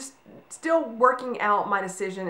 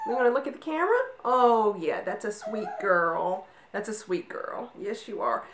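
sweet puppy talk. Real, not acted. Cooing at calm puppy.

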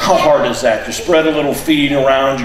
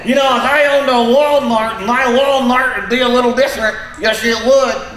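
high, squeaky puppet voice; cheeky redneck dummy, pitched up; squeaky ventriloquist dummy; 7 semitones higher than usual. Acted.

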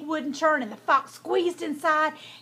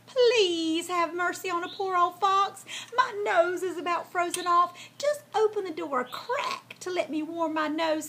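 raised, pitiful begging voice; pleading fox; 5 semitones higher than usual. A narrator's reading. Fox begs Hamlet to open a crack, pleading. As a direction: plead for mercy as a poor old fox. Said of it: "he pleaded".

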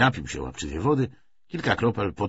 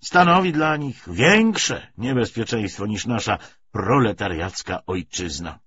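measured lecture with emphatic surges; lightly voiced party orator; 4 semitones higher, 5 dB louder than usual. Commissar justifies the treaty to comrades, mildly oratorical. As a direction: argue the policy point by point.

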